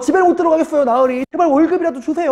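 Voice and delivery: desperate high-pitched begging. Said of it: "하고 막 애걸복걸한 거야".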